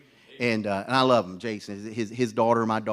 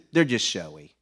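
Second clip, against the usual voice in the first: said again louder for the man who missed it; louder, spelled out for the man who asked what; repeated louder; 5 semitones lower than usual. Retold or imitated. Repeating it louder to a man who didn't hear.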